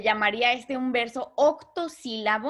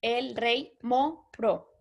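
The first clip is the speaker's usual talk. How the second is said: very slow, each syllable set apart; split into syllables; much slower than usual. Shown as a demonstration. Teacher to class, slowly marking each syllable. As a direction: read the verse slowly, syllable by syllable. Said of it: "si hacemos la división silábica".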